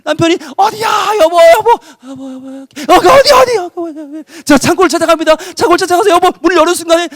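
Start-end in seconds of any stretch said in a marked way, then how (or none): 0.6-4.2 frantic calling. Acted. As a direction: keep shouting her name. Husband shouting search.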